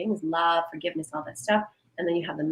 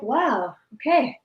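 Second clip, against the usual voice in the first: relieved inner voice; 3 semitones higher, slower than usual. Retold or imitated. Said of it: "and you're like".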